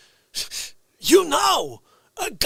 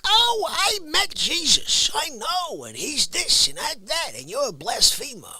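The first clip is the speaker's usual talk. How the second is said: lightly mock a smug zealot; mock know-it-all; 5 semitones higher than usual. Mocking the chat know-it-all, a light preachy sneer. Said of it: "being like the know-it-all".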